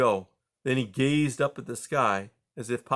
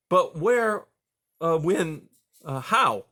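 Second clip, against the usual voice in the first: stammering; 5 semitones higher, 5 dB louder, slower than usual. A narrator's reading. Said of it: "Junior continued to stammer".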